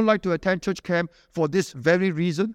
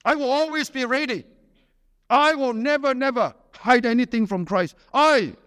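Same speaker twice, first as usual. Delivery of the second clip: lightly hammed-up boast, big and sure of himself; mock boaster; 3 semitones higher than usual. Preacher mocks a disciple who talks big, a touch of swagger. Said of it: "Talk big, boast".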